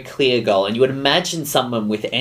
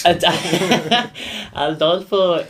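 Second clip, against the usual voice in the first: put-on Latin lover accent; 8 semitones higher than usual. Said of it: "And please speak like Adolfo".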